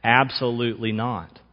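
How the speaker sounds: preacher voicing Peter's flat refusal; emphatic refusal. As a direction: bark it out as Peter. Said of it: "barks out this really strong command".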